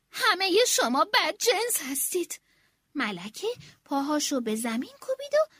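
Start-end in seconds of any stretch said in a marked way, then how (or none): 0.1-2.4 shouting. Acted. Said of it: "فریاد زنان گفت".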